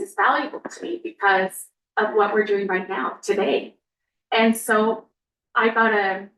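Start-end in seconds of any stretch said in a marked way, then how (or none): 4.3-6.3 speaking with a dry mouth; parched, sticky-mouthed speech. Real, not acted. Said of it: "sorry, my mouth is so dry".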